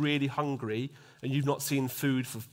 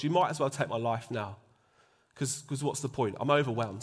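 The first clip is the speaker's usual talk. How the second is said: tired, hopeless plea to God; discouraged plea; 4 semitones lower than usual. Retold or imitated. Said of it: "he was so discouraged that he effectively said to God".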